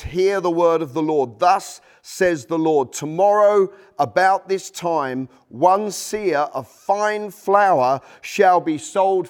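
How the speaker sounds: slow, measured pronouncement of the Lord's word; prophetic proclamation. Acted. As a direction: declare it slowly like a prophet.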